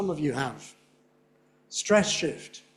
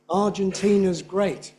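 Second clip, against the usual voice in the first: slow "Argentina's great", beats on AR, TI and GREAT; emphatic triple stress; 2 semitones higher, slower than usual. Shown as a demonstration. Teacher showing the class an unnatural reading, emphatic. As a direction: stress every beat in "Argentina's great", slowly. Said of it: "It's emphatic, it doesn't sound right".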